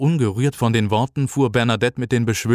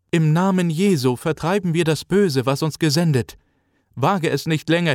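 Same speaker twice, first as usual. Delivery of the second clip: raised, solemn commanding ritual voice; exorcist's incantation; 6 semitones higher than usual. Acted. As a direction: cast out the demon with authority. (feierliche Beschwörung einer Exorzistin)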